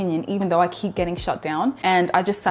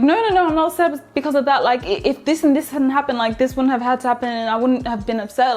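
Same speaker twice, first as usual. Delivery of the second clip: higher, protesting self-defence; explaining herself; 5 semitones higher than usual. Retold or imitated. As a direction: act out anxious over-explaining. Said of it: "I try to explain myself".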